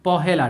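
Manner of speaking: পহেলা said clearly as the answer; correct pronunciation. Shown as a demonstration. Teacher answers his own question for the class, clearly. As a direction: give পহেলা as the right reading. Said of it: "এটাকে উচ্চারণ করব কি?".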